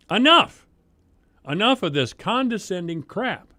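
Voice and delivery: sudden loud, high cry of enough; fed-up public speaker shouting down condescension; exasperated shout. Real, not acted. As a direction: burst out in real frustration. Frustrated speaker calling out at council.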